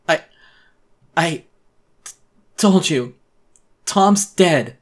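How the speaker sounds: terrified, voice breaking; voice cracking. A narrator's reading. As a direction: choke the words out as she grips his throat. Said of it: "my voice cracked".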